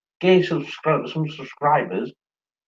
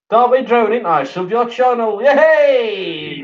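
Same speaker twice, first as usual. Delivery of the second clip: excited cheer; 5 semitones higher, 3 dB louder, slower than usual. Real, not acted. Cheering a new subscriber.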